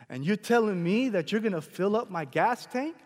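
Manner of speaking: imitating overwhelmed disbelief; mild retold astonishment; incredulous question. Retold man disbelieves the offer.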